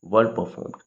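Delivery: drawn-out slow demonstration of the nuptials; slow careful reading. Shown as a demonstration. Teacher spelling out the phrase very slowly for the class. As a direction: read it out slowly for students. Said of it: "ये आएगा the nuptials or the nuptial".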